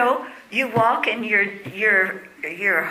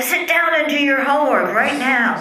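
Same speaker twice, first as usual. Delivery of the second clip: drill sergeant; 2 semitones higher, 4 dB louder than usual. Retold or imitated. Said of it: "like a drill sergeant in the army".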